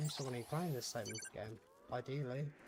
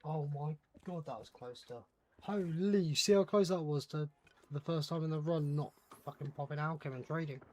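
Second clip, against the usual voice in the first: loud relieved exclamation after a close call; breathless relief, voice jumping up; relieved excitement; 4 dB louder than usual. Real, not acted. Near miss in the game.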